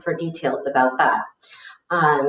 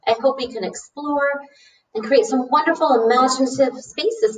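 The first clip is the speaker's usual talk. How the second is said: lightly voiced, pleased teacher; welcoming teacher; 3 semitones higher, faster than usual. Teacher replying to Arthur's letter, lightly voiced welcome. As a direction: read it as a teacher welcoming a new student.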